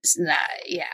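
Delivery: imitating muttered fury. Wife imitating her embarrassed husband at the restaurant, hushed seething mutter. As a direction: play the husband swallowing his anger. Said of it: "just looks at me like".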